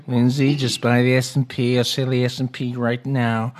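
slow, half-hearted American accent, put on lightly; a rough stab at a US president's voice, slowed down; lightly mocking American accent, unsure of it; imitating Trump's accent. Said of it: "I can't do the accent like I can the Boris Johnson one".

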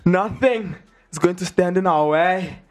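slow, amateur Scottish accent; imperfect Scottish impersonation, drawn out for drama. Shown as a demonstration. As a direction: declare it slowly with an attempted Scottish lilt. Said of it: "I did with that Scottish accent".

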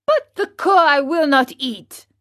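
a stubborn puppet stamping his foot; angry tone. A narrator's reading. Puppet refusing his father, a mild angry cry. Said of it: "cried Pinocchio in an angry tone".

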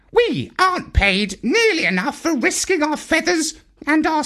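high squawky bird voice; parrot voice. A narrator's reading. Parrot announcing his business plan, high squawk. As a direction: play the pompous parrot, high pitched.

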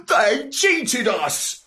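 indignant exclamation. A narrator's reading. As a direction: cry it out, stretching each word. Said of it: "I exclaimed".

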